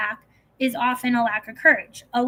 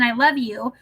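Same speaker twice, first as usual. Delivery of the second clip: tender I love you. Shown as a demonstration. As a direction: say "I love you" as a tender statement, falling at the end. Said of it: "when said with kindness and tenderness".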